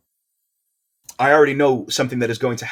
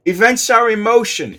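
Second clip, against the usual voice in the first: higher, louder hammed-up accent of the tree spirit; awful put-on accent; 11 semitones higher, 8 dB louder than usual. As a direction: overdo a silly spirit accent. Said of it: "That is an awful accent".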